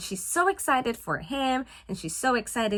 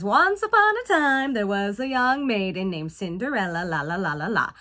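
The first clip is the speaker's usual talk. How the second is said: storybook narrator; 2 semitones lower than usual. Retold or imitated. Reads storybook opening in sing-song.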